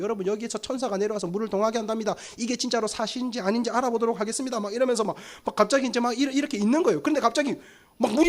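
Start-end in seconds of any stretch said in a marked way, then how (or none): 0.0-4.6 quick, softer mock news intro; lightly voiced on-site reporter, rattled off. Reporter tells viewers about the angel at the pond, lightly acted. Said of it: "방송국에서 막 취재를 할 것 같아요".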